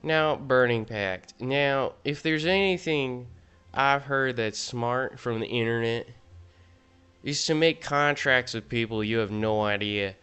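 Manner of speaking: hammed-up Southern accent, lightly voiced. Gamer ranks cards in a put-on Southern accent. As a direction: play a smug Southern know-it-all. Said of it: "I'm doing the southern accent".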